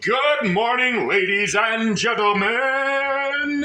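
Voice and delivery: slow, drawn-out host greeting; show host voice. Acted. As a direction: stretch it like a radio host. Mock show-host opening.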